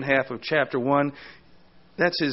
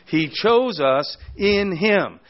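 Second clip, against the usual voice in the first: "in him" set apart, higher and slow; stress on IN HIM; 4 semitones higher, much slower than usual. Shown as a demonstration. Preacher pointing the congregation to the key phrase, stressing "in him". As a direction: slowly land hard on "in him". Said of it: "that emphasis on being in Christ or in him".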